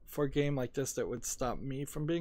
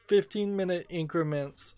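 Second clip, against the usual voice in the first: higher, louder, quick announcement; excited; 5 semitones higher, 4 dB louder than usual. Real, not acted. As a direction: burst in with eager news.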